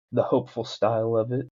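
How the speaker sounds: mock-knowing whispered aside. Joking to listeners he knew it, whispered aside. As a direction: whisper it like a smug secret.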